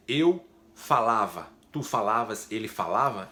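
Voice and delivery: eu falava slowed, each pronoun leaned on; slow stressed conjugation. Shown as a demonstration. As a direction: spell out eu falava, tu falavas, ele falava slowly. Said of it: "pra dizer, por exemplo". (conjugação lenta e marcada)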